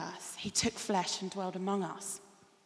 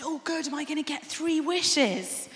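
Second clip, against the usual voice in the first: woman's voice; 6 semitones higher, 4 dB louder than usual. Acted. Woman in joke asks genie.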